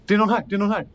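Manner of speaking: high, loud alarmed call; urgent call. Acted. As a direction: call out urgently for someone to hurry. Frightened character calls for help urgently.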